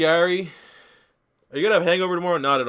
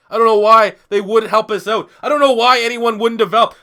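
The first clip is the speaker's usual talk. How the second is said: building frustrated rant; 5 semitones higher, 4 dB louder than usual. Real, not acted. Building frustrated rant about losing.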